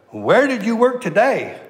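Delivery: "Where did you work today" pitched high with big swoops; overwhelmed inflection. Shown as a demonstration. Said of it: "read it with a little inflection".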